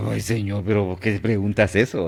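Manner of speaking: mildly ironic Peter, questioning his Lord; lightly acted, incredulous question; a bit ironic. Peter puzzled at Jesus's question, mildly ironic. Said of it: "así un poco irónico".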